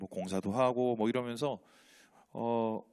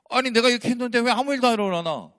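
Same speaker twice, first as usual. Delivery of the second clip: exasperated complaint; 10 semitones higher, 7 dB louder than usual. Acted. Elijah's frustrated complaint voiced.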